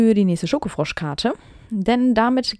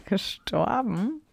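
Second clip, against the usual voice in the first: slow, drawn-out incredulous question; amused disbelief; 8 dB quieter, much slower than usual. Real, not acted. Shocked that parents died.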